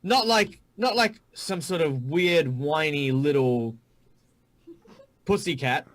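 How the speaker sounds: high, scornful Australian bark; mock the whiny pussycat, Aussie-style. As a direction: hobgoblin demanding a whispered threat in Australian accent. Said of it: "the Hobgoblins in my world are Australian".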